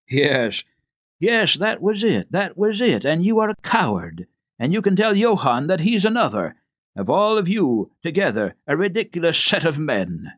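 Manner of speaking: gloating that the ghost is solved; triumphant scorn. A narrator's reading. Servant scolds the cowardly staff.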